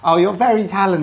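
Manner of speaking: sarcastic. Real, not acted. Teasing about badly fitted foil.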